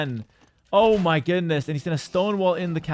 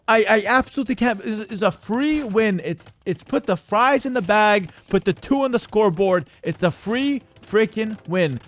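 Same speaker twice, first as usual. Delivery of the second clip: heated rant; 3 semitones higher than usual. Real, not acted. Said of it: "Now I'm getting heated".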